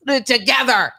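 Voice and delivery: put-on hammy Spanish accent; mock Spanish accent. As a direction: imitate a Spanish-speaking photographer. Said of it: "I just started speaking Spanish".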